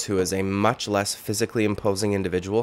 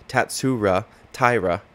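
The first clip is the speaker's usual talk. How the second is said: slow Tatsura Taira in Japanese accent; 2 semitones higher, slower than usual. Shown as a demonstration. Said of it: "I did it in the Japanese accent".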